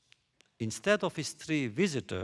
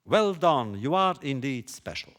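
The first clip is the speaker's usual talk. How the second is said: loud, hammed-up cheer; half-yell it like applause for a hero; raised-voice mock bravo; mock yelled congratulation; 6 dB louder than usual. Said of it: "one feels like yelling".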